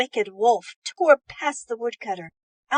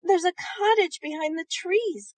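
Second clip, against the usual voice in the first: put-on much higher, louder eager boy; cried out excitedly; 8 semitones higher, 5 dB louder, slower than usual. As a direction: spot the cottage and point, thrilled. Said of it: "cried Tom".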